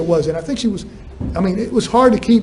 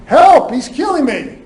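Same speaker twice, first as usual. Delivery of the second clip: mock yell for help, pitched up; imitated plea for rescue, higher; retold cry for help; 6 semitones higher than usual. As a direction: call out for help, only half raised. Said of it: "still yelling for help".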